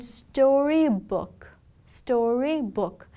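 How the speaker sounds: "storybook" slowly in three parts, sto-ry-book; syllable by syllable. Shown as a demonstration. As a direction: stretch each syllable of "storybook" for learners. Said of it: "This word has three syllables in them".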